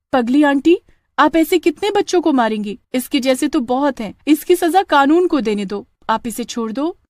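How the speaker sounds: put-on calm the witch like a brave child; young girl pleading. Pooja asks the witch to spare Sunny, high girlish voice.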